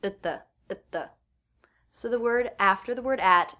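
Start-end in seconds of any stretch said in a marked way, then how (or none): 0.0-1.1 "Itta" quick, with T held before "the"; reduced at, stop T. Shown as a demonstration. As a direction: stop the T, slide into "the". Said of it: "therefore the T is a stop T".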